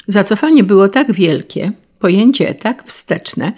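usual speaking voice

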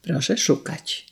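hushed fearful reply; trembling reply. Acted. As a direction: answer quietly, trembling. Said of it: "odrzekła drżąca hrabina".

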